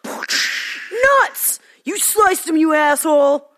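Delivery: angry shout. Acted. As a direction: yell in outrage at the hit.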